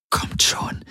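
breathless whisper. Acted. Kirai whispers to the approaching ships, willing them on. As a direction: urge them on under your breath. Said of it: "hörte er Kirai flüstern".

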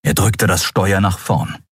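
ordinary delivery

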